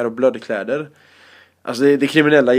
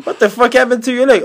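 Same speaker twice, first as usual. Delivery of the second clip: lightly voiced gang member; 10 semitones higher, 5 dB louder than usual. Retelling bus conversation.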